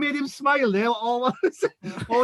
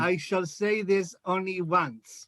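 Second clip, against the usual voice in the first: slow and deliberate; 5 semitones lower, 6 dB quieter, slower than usual. Shown as a demonstration. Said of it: "Listen carefully".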